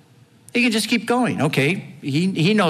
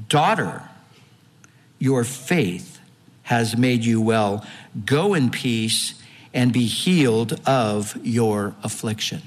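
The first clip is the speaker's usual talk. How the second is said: tender Jesus; 4 semitones lower than usual. Retold or imitated. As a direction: speak it gently to a healed woman. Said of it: "And he said to her, listen".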